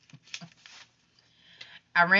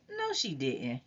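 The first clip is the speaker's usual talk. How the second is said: disbelief; 8 dB quieter, slower than usual. A narrator's reading. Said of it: "she said with disbelief".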